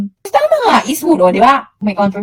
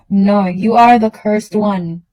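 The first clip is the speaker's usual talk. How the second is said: slow mock pronouncement; slower than usual. Slow mock curse declaration.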